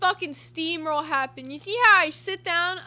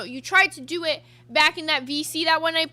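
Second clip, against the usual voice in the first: ordinary talk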